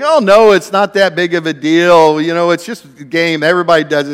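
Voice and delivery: mock the guys brushing it off; lightly voiced friends insisting it's fine; teammates pleading. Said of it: "they were saying".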